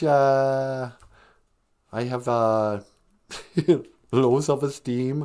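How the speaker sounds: lightly put-on Spanish accent; a hint of phony Spanish accent, halting; mock fake Spanish accent. Mocking the wife's confession, light put-on Spanish accent. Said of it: "speak with a fake Spanish accent".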